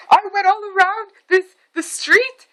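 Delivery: high, loud, worked-up rant; retold screaming. Mom recounts chasing the driver, high mock yelling. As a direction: imitate mom yelling at the top of her pitch. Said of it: "I'm screaming at this guy".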